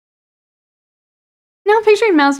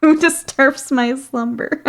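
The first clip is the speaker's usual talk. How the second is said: slow, ominous awakened monster voice; dusty mummy rasp; 4 semitones higher, 3 dB louder, slower than usual. Pretend. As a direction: intone it like something ancient woken. Orc woken from slumber.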